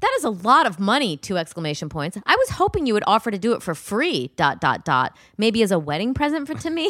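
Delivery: hammed-up demanding bride reading her messages; entitled bride. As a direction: read the bride's texts like a spoiled princess. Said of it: "She screams".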